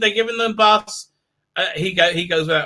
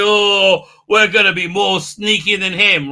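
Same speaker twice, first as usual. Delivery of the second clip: drawn-out, louder mocking "Oh"; mock scheming; 3 dB louder than usual. Reviewer mimics her sneaky plan, mockingly. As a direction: play up the silly scheme.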